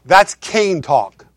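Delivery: each word laid down slowly; slow, deliberate repeat. Shown as a demonstration. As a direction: say it again, slow and weighty. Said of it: "Let me say it again".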